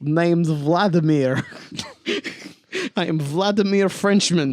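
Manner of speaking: mocking Russian accent for a Frenchman. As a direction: tease with a fake Russian accent. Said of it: "And now it's Russian".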